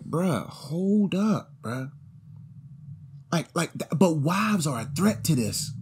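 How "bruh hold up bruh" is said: slow stern halt. Retold or imitated. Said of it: "Because I'm like".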